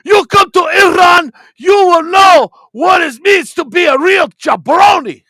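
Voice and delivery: shouted heel wrestler promo; over-the-top wrestling trash talk; wrestling promo rant. Pretend. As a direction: yell it like a foreign heel cutting a promo.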